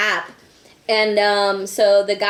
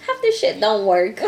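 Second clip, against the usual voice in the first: laughing. Retold or imitated. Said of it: "I was like".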